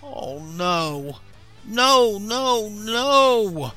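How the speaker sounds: panicked cry building to high, loud wails; horrified, escalating scream. A narrator's reading. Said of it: "screamed Eugene".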